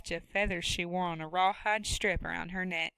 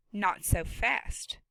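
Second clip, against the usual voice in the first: stern farm woman; much slower than usual. Acted. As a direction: scold him from her own barn. Woman character voice.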